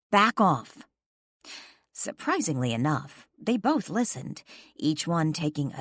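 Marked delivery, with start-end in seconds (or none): 0.1-0.8 commanding. A narrator's reading. Breaking up a fight.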